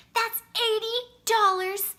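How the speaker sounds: high, loud excited blurt. A narrator's reading. Maddie blurts out each share, excited and loud. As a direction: let it burst out of you. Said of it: "then blurted".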